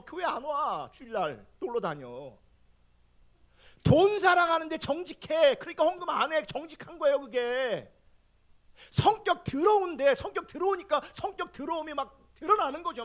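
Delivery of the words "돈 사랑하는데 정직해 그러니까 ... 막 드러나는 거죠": loud, high preaching with conviction; forceful preaching. Acted. A pastor confesses to his congregation, loud, forceful preaching. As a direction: drive the point home like a pulpit sermon.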